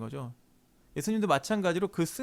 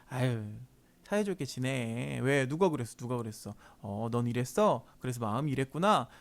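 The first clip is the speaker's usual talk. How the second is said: soft, patient parent voice; mild, acted gentle coaxing; speaking nicely; 4 semitones lower, 3 dB quieter than usual. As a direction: soothe squabbling children, unhurried. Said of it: "좋게 얘기할 때도 있는데".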